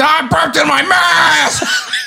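mock very high, swooping, drawn-out yell. Recounting a moment alone in a stairwell at work, retelling a yell. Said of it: "I just yelled out".

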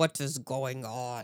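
very slow, closed-mouth speech with jaw held still. Retelling how a woman on the show asked a question, imitating talking without moving mouth. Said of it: "without opening her mouth".

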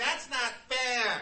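put-on very high, very loud, nasal child voice protest. Showing the tone children use to complain something isn't fair: nasal child's 'that's not fair'. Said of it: "Very nasal".

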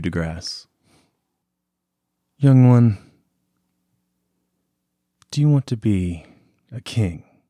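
overly sweet, cloying, too-nice sincere voice. Voicing a voice that calls out to the listener, in an overly sweet voice. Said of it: "too too nice too sweet too good".

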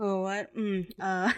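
put-on mumbled, half-asleep reading. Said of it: "He mumbles the whole thing".

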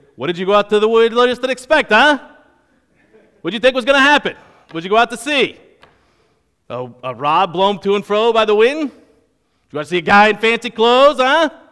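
put-on, loud Western New York accent, dad voice. Speaker acts out a passage the way a frustrated dad would: put-on Western New York accent. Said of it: "middle-aged Italian men with a Western New York accent".

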